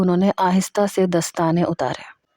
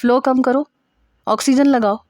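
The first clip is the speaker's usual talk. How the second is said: brisk raised-pitch medical commands; urgent orders; 5 semitones higher than usual. A narrator's reading. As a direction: order the team about at once. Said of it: "فوراً orders دینے شروع کیے". (فوری حکم دیتا لہجہ)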